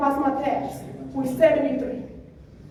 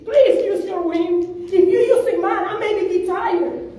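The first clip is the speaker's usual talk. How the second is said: laughing plea; 4 semitones higher, slower than usual. Real, not acted.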